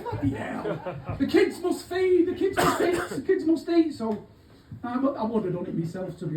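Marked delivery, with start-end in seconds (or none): 0.0-3.9 mock solemn. Mock solemn Greggs reverence.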